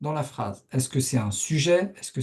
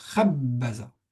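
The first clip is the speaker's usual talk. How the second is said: khabbaza with stress on first syllable khab; 2 semitones lower than usual. Teaching how to say the word Khabbaza, stress on the first syllable Khab. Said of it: "On appuie ici sur la première syllabe".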